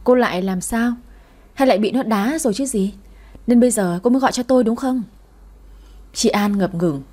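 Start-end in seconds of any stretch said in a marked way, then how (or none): 0.0-5.0 irritated, speeding up at the end; mild snapping. Acted. He snaps at ex-wife calling for money, irritated. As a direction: snap at her with contempt. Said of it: "gắt lên".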